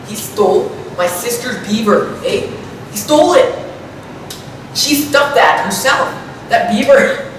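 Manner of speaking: put-on Canadian accent with tacked-on "eh"; hammed-up Canadian accent. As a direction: play a caricature Canadian, "eh" after every thought. Parody Canadian talk, eh everywhere.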